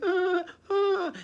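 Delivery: very high mock donkey wails; donkey cries. Donkeys taken off into the snow, wailing high. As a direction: squeal like dragged donkeys. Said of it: "donkeys going".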